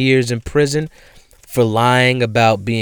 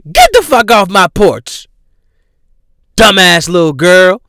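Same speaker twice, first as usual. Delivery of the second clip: loud, high-pitched imitated yell; a singer; 7 semitones higher, 7 dB louder than usual. Homeowner yelling at a little girl on her porch, mock angry shout. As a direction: holler it like chasing someone off the porch. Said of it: "she yelled at this little girl".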